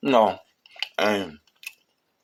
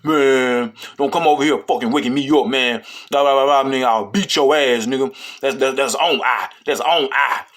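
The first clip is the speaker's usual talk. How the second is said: snapping. Retold or imitated. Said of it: "he started snapping".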